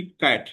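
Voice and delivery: कैट with a short vowel. Shown as a demonstration. Teacher showing short vowel sounds, कैट said short. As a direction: keep the vowel in कैट brief. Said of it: "अब ये short है".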